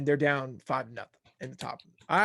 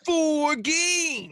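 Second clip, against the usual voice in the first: much higher and louder, pushing the point; heated insisting; 12 semitones higher, 4 dB louder than usual. Real, not acted. Host argues with Ryan, loud and insistent about the rules. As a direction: insist hard over your friend.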